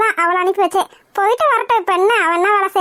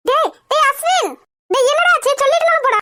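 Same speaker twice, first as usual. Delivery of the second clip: alarmed calling out; 5 semitones higher than usual. Acted. Mother calls after raging son.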